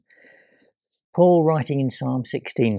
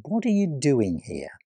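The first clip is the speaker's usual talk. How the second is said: whisper; 2 semitones higher than usual. Acted. God speaking to Elijah softly.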